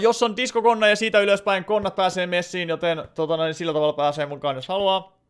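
ordinary talk

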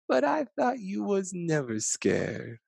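a grandchild surprised that grandpa was scared; lightly voiced astonished child; child's voice. A narrator's reading. Child voice in story.

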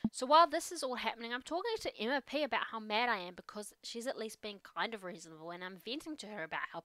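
a lightly voiced teenage girl venting; teen daughter voice. Teen daughter venting to her dad, lightly voiced. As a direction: play it as an upset teen unloading. The speaker retelling the drama.

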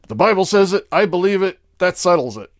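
loud, high preacher's slogan; preachy declaration. Retold or imitated. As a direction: proclaim it like a firm preacher.

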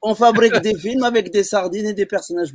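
a hint of a comic sergeant with a foreign accent; lightly voiced Sergent Bébek. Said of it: "c'est le Sergent Bébek".

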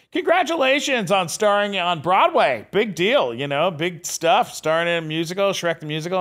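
high-pitched congratulatory gush; gushing studio executive. Retold or imitated. Universal's boss congratulating a Broadway star, gushing.

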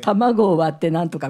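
recipe read as a ghost story; mock-horror recipe narration; scary recipe reading. Shown as a demonstration. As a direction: make cracking an egg sound ominous. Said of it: "いかに怖く感じさせるか".

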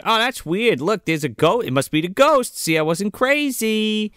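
lightly imitated airy indifference; not caring. Imitating Julie spotting a ghost, not caring at all. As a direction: remark on it as no big deal. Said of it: "doesn't give a fuck about anything".

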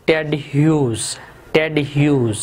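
"टेड ह्यूज" said carefully with a silent g; pronunciation model. Shown as a demonstration. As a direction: say "टेड ह्यूज" ending in a z sound, no g. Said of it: "इसकी pronunciation जो है ना वो ह्यूज है".

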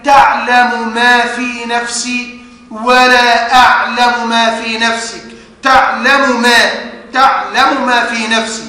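both meems in تعلم ما sounded separately; measured recitation, no merging in تعلم ما; clear izhar. Shown as a demonstration. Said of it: "قالوا لنا وجوب الإظهار، فنقرأ". (إظهار الميمين في تعلم ما)

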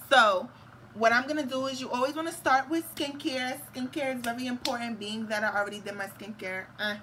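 unplanned Spanish accent creeping in. Real, not acted. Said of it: "why am I talking in a Spanish accent?".

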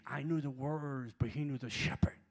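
shouted refrain of the line; preaching repeat. Retold or imitated. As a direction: drive the point home harder. Same line repeated louder.

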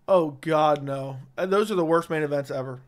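hiccuping between words; talking through hiccups. Real, not acted. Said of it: "Now I got the hiccups".

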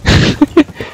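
voiceless snickering laugh. Real, not acted. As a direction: snicker under your breath. Amused after smashing enemy.

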